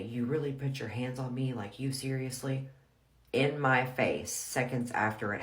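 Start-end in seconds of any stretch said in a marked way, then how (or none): 0.0-2.7 mildly raised, disbelieving retort; retelling a stunned accusation with restraint; incredulous confrontation. Retold or imitated. Wife confronting husband right after the fight, incredulous. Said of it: "and I say".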